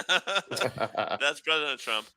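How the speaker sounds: slow, laughing announcement. Real, not acted. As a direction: drag it out through a laugh.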